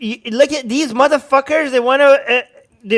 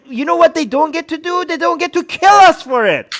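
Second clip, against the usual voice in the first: raised, higher-pitched protest; angry insistence; 5 semitones higher than usual. Real, not acted. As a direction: protest it with real anger. Angry rant about free speech.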